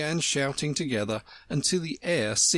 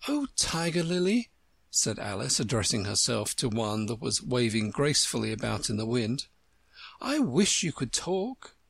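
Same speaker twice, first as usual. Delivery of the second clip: put-on wistful little girl; young girl voice. Alice voiced higher.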